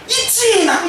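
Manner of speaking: a high laughing yes; laughing admission. Real, not acted. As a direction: own up with a laugh. Admits the temptation, laughing. (웃으며 높게 인정하기)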